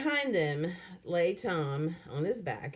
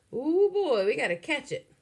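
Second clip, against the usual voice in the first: put-on excited kid; 10 semitones higher, 6 dB louder than usual. A narrator's reading.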